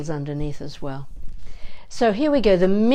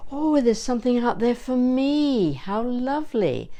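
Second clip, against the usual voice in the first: light, higher, pleased; delighted; 5 semitones higher than usual. Shown as a demonstration. Voice teacher showing joyful focus, mildly delighted. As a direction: welcome something lovely ahead. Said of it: "your focus is".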